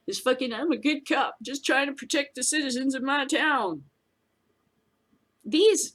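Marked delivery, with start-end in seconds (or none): 0.5-3.8 lightly voiced earnest small-town cop; mock the cop's self-righteous innocence; a hint of a whiny good-cop voice; mock Barney Fife. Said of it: "Barney Fife".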